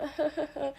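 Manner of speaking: light, soft put-on laugh; cute fake giggle. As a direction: giggle politely, faking it. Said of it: "I try to do, like, a cute".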